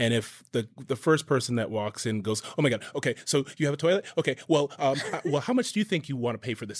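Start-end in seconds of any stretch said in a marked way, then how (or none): 2.6-6.8 mock flustered, fast, stumbling, nervous babbling. Speaker acting out a hypothetical plumber who shows up: imitating a nervous plumber. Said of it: "they're like all nervous".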